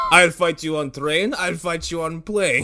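rhyming challenge. Pretend. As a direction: recite it slowly like a silly rhyme. Dr. Seuss parody as Alexander.

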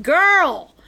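retold warning, stretched out; mock warning. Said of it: "And I was like".

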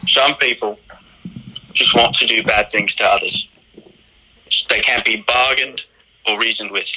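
lightly voiced impression of an English actor; measured, halting film-quote delivery with a hint of Caine; Michael Caine impression. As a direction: attempt a modest Michael Caine, pausing between phrases. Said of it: "can you do your Michael Caine impression?".

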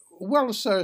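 put-on an old sailor caught out, excusing himself; old salt apologizing to his captain; apologetic. A narrator's reading. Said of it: "said the old salt apologetically".

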